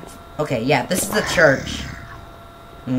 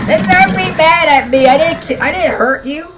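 panicked high protest; 10 semitones higher, 5 dB louder than usual. Real, not acted. Zombie attacks him.

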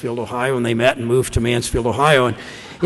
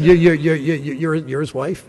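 flustered stammer; 2 semitones higher than usual. Retold or imitated. Embarrassed stranger realizing he insulted her husband, flustered stammer. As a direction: imitate a man tripping over his words.

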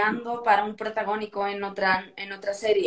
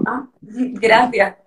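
slow, louder, laughing thanks; surprised laugh; 5 dB louder, much slower than usual. Retold or imitated. Actress recalling being told she got the role, laughing. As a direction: let a delighted laugh spill into the thanks. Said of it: "Y yo".

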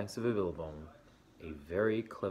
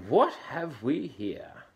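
higher, loud, slow curious; Emu voice; 6 semitones higher, 8 dB louder, slower than usual. Acted. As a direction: draw it out high.

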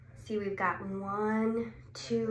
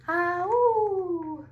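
howl; 7 semitones higher than usual. Acted. Reading the owl howl.

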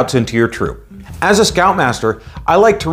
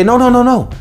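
emphatic no; 10 semitones higher than usual. Retold or imitated. Stopping kids again.

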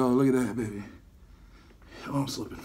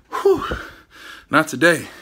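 breathless exclaim; 5 dB louder, slower than usual. Real, not acted. Exhausted after workout, defiant.

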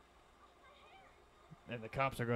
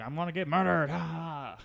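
mock cheerful victim, louder and higher; 6 semitones higher, 7 dB louder than usual. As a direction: laugh it off cheerfully before getting killed.

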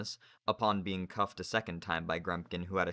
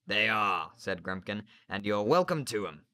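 sneering teacher; 5 dB louder than usual. Acted. Narrator voices Grumpkin.

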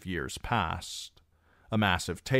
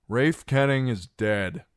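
loud announcement; 6 semitones higher, 5 dB louder than usual. Acted. Reek announcing to the drinkers, loud and high. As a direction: raise the voice, higher and louder.

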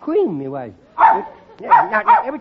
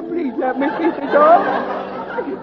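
slow, hammed-up tragic begging; melodramatic Betty Davis plea; 3 semitones higher, slower than usual. Boy begging his mother, as a slow hammed-up Betty Davis plea. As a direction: ham up the plea like a screen diva. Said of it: "that Betty Davis act".

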